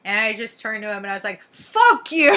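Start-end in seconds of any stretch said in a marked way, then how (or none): 1.5-2.3 loud yelled comeback, higher; retold shout. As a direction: yell it right in his face. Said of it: "right in his face".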